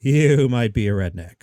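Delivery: lightly voiced comic, voice dropped for the punchline; half-ass Jeff Foxworthy. Shown as a demonstration. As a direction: drop back down to land the punchline. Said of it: "then you drop your voice".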